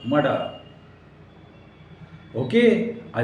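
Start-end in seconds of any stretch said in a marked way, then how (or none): 0.1-0.4 "मर्डर" with neither R spoken; "मर्डर" said as "ma-daa"; silent R. Shown as a demonstration. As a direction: leave the Rs out of "मर्डर". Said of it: "मर्डर नहीं".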